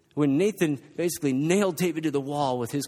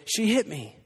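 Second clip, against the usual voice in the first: put-on sobbing child; 5 semitones higher than usual. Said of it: "loud, exaggerated sobs".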